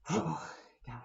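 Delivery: whispered 'oh God' after a sigh; a real exasperated whisper; whispered groan. Real, not acted. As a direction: mutter it under your breath in exasperation. Weary sigh at the movie.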